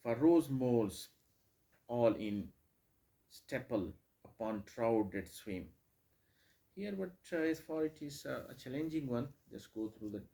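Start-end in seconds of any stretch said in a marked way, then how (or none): 0.0-5.7 each stressed word in "For rose moles all in stepple upon trout that swim" read loud and heavy, the last line slowed; loud poem reading. Shown as a demonstration. Teacher reading the poem line to the class, loud and declaimed. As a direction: declaim it with every stress hit hard. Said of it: "the line number three".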